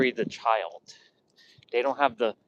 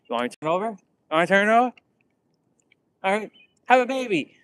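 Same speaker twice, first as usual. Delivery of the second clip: imitating an incredulous host, climbing higher; retold disbelief; 6 semitones higher, much faster than usual. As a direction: echo it back in mock disbelief, pitch rising. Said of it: "in disbelief".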